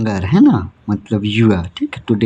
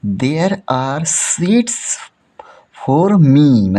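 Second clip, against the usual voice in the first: whispered; 3 semitones higher, much slower than usual. Acted. Reading Meena's excited line.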